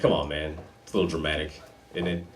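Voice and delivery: soft, low, unimpressed aside; low-key skepticism. Retold or imitated. Acted skeptical reply to drug warning.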